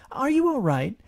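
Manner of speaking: high, loud worried mother; concerned Kanga. A narrator's reading. Kanga peers into the hole, concerned mother.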